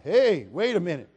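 imitating himself, suddenly alert and amused; retold surprised exclaim. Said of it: "And I went".

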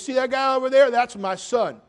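loud, high boastful inmate voice; proud inmate. Retold or imitated. Pastor imitating a boastful inmate, loud and high. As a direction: crow like a proud old convict. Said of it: "He goes".

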